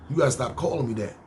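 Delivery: quick, firm warning; firm retold complaint. Telling a coworker to stop calling him blood, firm. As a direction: set him straight, fast but not shouting. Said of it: "Yo, listen".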